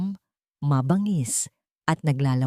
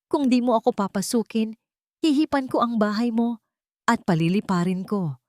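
threatening wolf; 6 semitones higher than usual. Acted. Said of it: "Sumigaw ang lobo".

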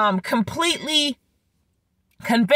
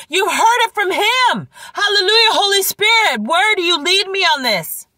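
fervent praise; 6 semitones higher than usual. Real, not acted. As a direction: lift it up in praise. Preacher exclaims Hallelujah.

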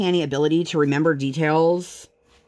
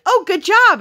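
high, louder sing-song praise; imitating stranger woman; 6 dB louder than usual. Mother imitating a woman praising her toddler, high and bright. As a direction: gush it like a kind stranger to a child. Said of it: "the woman was like".

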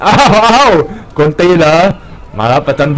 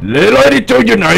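calling out; 8 semitones higher than usual. Pretend. Calling out for the target.

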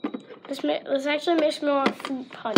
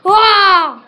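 sudden loud high wow; 5 semitones higher, 15 dB louder than usual. Acted. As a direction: burst out amazed. Surprised exclamation as dinosaur.

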